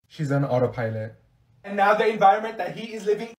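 ordinary delivery

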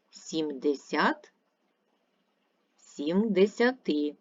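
slow, drawn out, each word called to hear its stress; calling out words. Shown as a demonstration. Teacher to pupils, slowly calling out words for stress. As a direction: call each number out slowly to find the stress. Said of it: "треба слово погукати".

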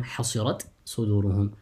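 حصرت with its final ت clearly sounded before صدورهم; izhar. Shown as a demonstration. Teacher gives students an example, reciting with izhar. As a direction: keep the ت of حصرت separate from the ص. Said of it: "rather recite with الإظهار".

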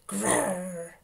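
growl, then slow, loud agreement; slow lion grumble; grudging lion. A narrator's reading. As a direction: growl and drag out the consent. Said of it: "said Mister Lion".

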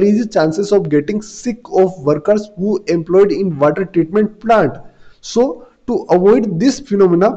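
word by word, very slow and clear, for students to copy; slow classroom dictation. Shown as a demonstration. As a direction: dictate each word so the class can write it down. Teacher dictates answer to students.

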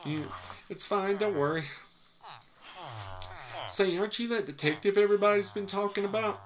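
put-on hotel manager Sarah greets the detective, in a light island accent. Hotel manager meeting the famous detective, lightly island-accented. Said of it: "dropped her accent a little ways in".

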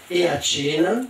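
lenta promessa sorniona; con un sorriso. Acted. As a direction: allunga le parole come una lusinga. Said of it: "concluse la madre con un sorriso". (lusinga lenta e sorridente)

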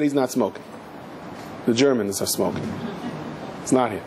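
understated, settled denial; calm correction. Retold or imitated. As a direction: imitate a rabbi quietly setting accusers straight. Rabbi calmly answers the accusers.

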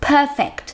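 "perfect" stressed on PER; stress on first syllable. Shown as a demonstration. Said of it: "เสียง stress ที่คำแรกค่ะ". (เน้นเสียงพยางค์แรกของ "perfect")

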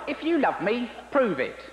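high-pitched, demanding God; a high, needy God making a demand. Acted. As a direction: ask it like a petty deity testing loyalty. God speaks to Abraham.

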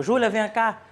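retold calling out. Father calling Júlia over, mild mock shout. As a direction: imitate a father calling his daughter. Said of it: "ele gritou por ela".

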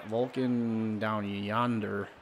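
low, slow, drawn-out words; drawled musing. Acted. Player musing over where the pitch goes, drawled. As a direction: stretch each word out lazily and low.

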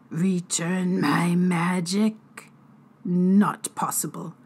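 slow, whispered disbelief; jaw-dropped sprite doubting the human; stunned fairy. Acted. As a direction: breathe it out, not daring to hope. Fairy healer voice.

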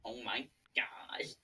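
slow stunned whisper. Real, not acted. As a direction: breathe it out in disbelief. Reacting quietly in disbelief.

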